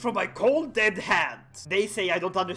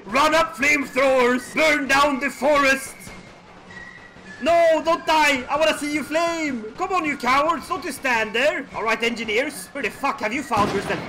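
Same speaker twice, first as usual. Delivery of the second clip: loud, higher barked orders to troops; hammed-up battlefield commands; mock commander shouting; 6 semitones higher, 6 dB louder than usual. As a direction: yell orders like a frantic general.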